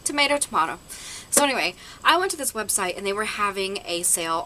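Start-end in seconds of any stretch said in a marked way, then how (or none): 0.0-0.8 "Tomato, tomato" as tom-AY-to, tom-AH-to, higher; two pronunciations. Shown as a demonstration. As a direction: say "tomato" first with ay, then with ah. Joking about two pronunciations.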